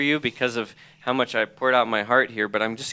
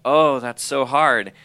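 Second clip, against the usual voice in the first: slow, louder sympathetic exclamation; retold sympathy; 3 semitones higher, 5 dB louder, slower than usual. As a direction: draw it out in sympathy, quoting a mentor. Mentor's sympathy in retold exchange.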